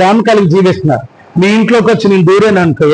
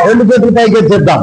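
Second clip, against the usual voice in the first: fast exhorting shout; faster than usual. Real, not acted. Preacher calls hands raised.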